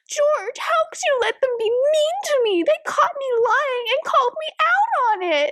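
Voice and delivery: hammed-up crocodile tears to her husband; fake teary wife. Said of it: "she just goes wide-eyed and teary-eyed".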